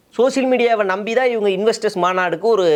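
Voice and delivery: plain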